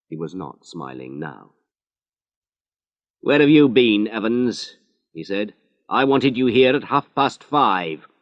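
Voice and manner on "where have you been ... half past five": louder, demanding police boss; lightly voiced inspector demanding an answer; a hint of an irritated senior officer; stern inspector. Inspector scolds late Harry.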